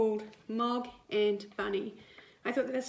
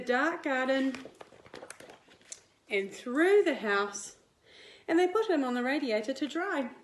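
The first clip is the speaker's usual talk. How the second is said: lively picture-book read-aloud; reading to children; 3 dB louder than usual. A narrator's reading. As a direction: read it like storytime for little kids. Teacher reads picture book to class.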